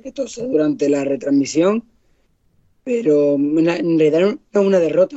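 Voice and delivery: hoarse, croaky voice from a cold; rough, worn-out voice from a cold; voice of death. Real, not acted. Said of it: "adoptado la voz de la muerte".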